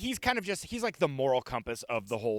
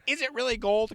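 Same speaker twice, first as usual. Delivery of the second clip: much higher, louder mock disbelief; mock incredulous; 12 semitones higher, 4 dB louder than usual. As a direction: squeak out the doubt, hammed-up. Mock questioning the hat.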